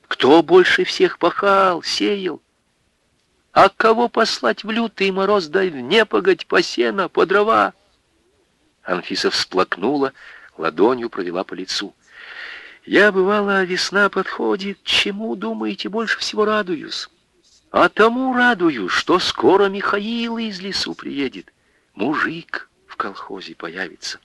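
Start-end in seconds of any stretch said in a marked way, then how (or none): 0.1-7.7 higher voice, rising fervour; voiced widow praising. Widow praising Михаил to the women, fervent. 12.8-24.2 high, soft, near tears; tearful widow. Acted. Widow confiding her joy at his return, tearful. Анфиса recalls spring, tearful.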